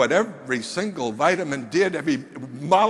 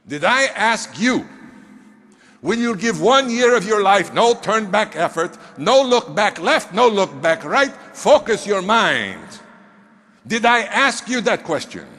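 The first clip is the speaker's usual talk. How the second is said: stern mentor; 2 semitones higher, 4 dB louder than usual. Retold or imitated. Mentor pressing the big man on his commitment, stern and loud. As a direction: lean in hard like a demanding mentor.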